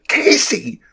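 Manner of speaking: high-pitched shout of a name. A narrator's reading. Rachel interrupts Casey's rant at the president, shouting. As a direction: shout to cut the speaker off. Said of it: "Rachel shouted".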